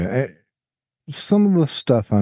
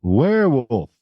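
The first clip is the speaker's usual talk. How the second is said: drawn-out movie quote voice; exaggerated cartoon intonation; 4 semitones higher than usual. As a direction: ham up the werewolf line. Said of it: "Why are you talking like that?".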